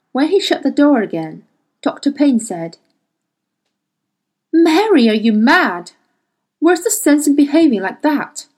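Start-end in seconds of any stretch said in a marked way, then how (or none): 4.5-8.5 exasperated, louder rebuke. Acted. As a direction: scold her in disbelief. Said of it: "Payne's exasperated outburst".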